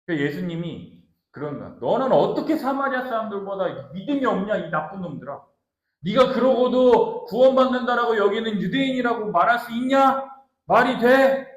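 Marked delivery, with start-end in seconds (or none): 1.8-11.5 indignant rebuke, building higher and louder; angry Jesus. Acted. Jesus rebuking the faithless Jews, with rising anger. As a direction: scold them in disbelief, ending loud. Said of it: "엄청 지금 예수님이 화내고 있는 거예요".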